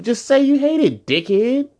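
high, loud exasperated yelling; shouting in high-pitched anger; angry outburst. Real, not acted. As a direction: snap at the haters in fury. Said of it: "this is the first or second time we hear you this angry".

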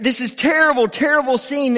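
rising, high-pitched dramatic emphasis. Acted. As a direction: make "terrible" land hard. Dramatic preaching build.

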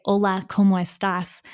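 heavily English-accented Spanish; really strong English accent. Shown as a demonstration. Showing what a listener would hear, strong English accent. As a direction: say the Spanish with broad English sounds. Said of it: "a really strong accent in Spanish".

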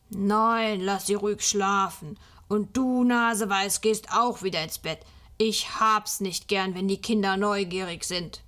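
a hint of a stern old Nikolaus, firm; lightly voiced gruff Nikolaus. A touch of a stern Nikolaus sending the boy to bed. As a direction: tell the nosy child off, firm but kind.

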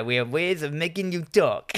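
badly faked German villain accent; attempted German accent. Shown as a demonstration. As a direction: have a go at a hammy German accent. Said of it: "how do you do a German accent".

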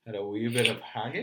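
a hint of a Connery Scottish burr; lightly voiced Connery brogue; Sean Connery Scottish. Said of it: "You, you've never".

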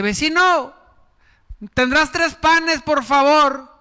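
high, slow begging voice; pleading neighbor. Acted. Neighbor at the door begging for three loaves, high and pleading. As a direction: beg sweetly for bread.

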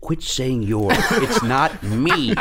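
drawn-out, rising mock protest, laughing; mock exasperation. Real, not acted. Guest objects to being blamed for Illinois, mock exasperation. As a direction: protest the blame, stretching the last words.

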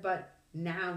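ordering. Acted. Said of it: "she ordered in the same tone".

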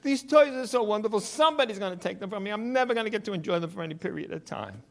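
high-pitched, wailing imitation of a distraught boy; mock sobbing. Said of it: "sobbing uncontrollably".

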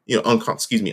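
talking through a mouthful; words round a bite of peanut butter; mouth full of peanut butter. Real, not acted. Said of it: "I got peanut butter in my mouth".

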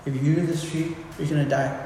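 God as a loving father warning his son. Retold or imitated. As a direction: tell him tenderly, out of love. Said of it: "in the tone of just a loving father".

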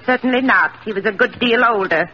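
sharp, offended snap; indignant retort. Acted. Sister insulted about age, indignant retort. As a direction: bristle at the suggestion.

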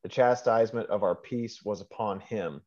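measured Bible reading aloud; scripture reading. Real, not acted. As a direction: read the verse out phrase by phrase.

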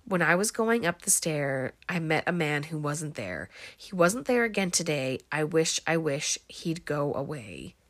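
lightly voiced creepy little boy; a hint of a creepy child reciting. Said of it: "creepy little boy voice".

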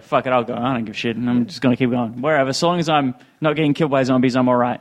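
resigned mumble. Retold or imitated. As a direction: shrug it off, beaten down. Homeless man resigned.

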